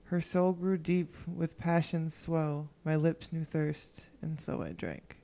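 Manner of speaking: slow measured poem recital; poem reading. Acted. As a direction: read it like a poem, slowly. Reads her poem aloud.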